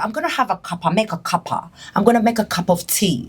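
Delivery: lightly put-on English accent with "cuppa" said KUH-puh; British accent impression. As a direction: mimic her English friend making tea. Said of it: "She talks like this".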